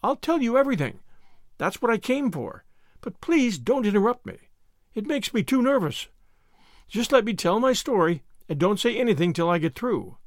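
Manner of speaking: lightly voiced anxious confession; nervous Anne.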